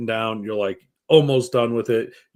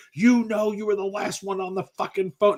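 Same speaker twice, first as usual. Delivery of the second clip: accusing mom; 8 semitones higher than usual. Retold or imitated. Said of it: "and you're like".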